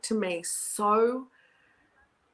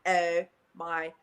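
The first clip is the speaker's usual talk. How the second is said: put-on a touch of a breathy, giggly Valley girl; dreamy Valley girl, fading to a whisper; 3 semitones lower, 5 dB louder, much slower than usual. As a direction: play a ditzy Valley girl, slowly. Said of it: "a Valley girl".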